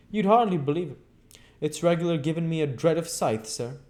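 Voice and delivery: high, chattering landlady voice; lightly rustic landlady gabbling on; Mrs Hall's voice. A narrator's reading. Mrs Hall gossiping.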